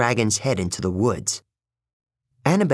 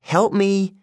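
higher-pitched strained plea; grunted with effort; 9 semitones higher than usual. A narrator's reading. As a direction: ask for help while tugging a load. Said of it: "Annabeth grunted".

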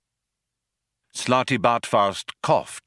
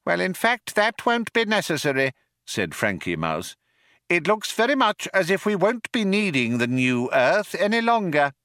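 high-pitched, officious little mouse; Frankie Mouse; 10 semitones higher than usual. A narrator's reading. Mouse cancels the new Earth, high voice. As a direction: pipe up as a self-possessed mouse.

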